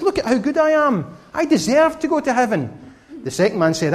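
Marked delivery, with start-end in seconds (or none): 0.0-2.7 higher, lightly voiced smug boast; a hint of a self-satisfied braggart; mildly acted proud man showing off his goodness; proud boastful man. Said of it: "The first man was proud".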